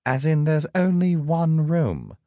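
loud, high, incredulous question; scandalised sidekick's outburst; appalled disbelief. A narrator's reading. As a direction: blurt it out aghast, pitch held up high. Loki alarmed at the shared room.

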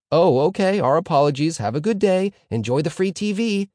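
high, loud, obliging officer; mock-apologetic police. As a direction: sing out an over-agreeable apology. Police apologising in absurd example.

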